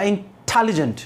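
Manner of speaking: "इंटेलिजेंट" with extra force on the टे; stress on the second syllable. Shown as a demonstration. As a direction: punch the टे in "इंटेलिजेंट". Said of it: "इसे क्या कहते हैं?". ("इंटेलिजेंट" में टे पर ज़ोर देकर)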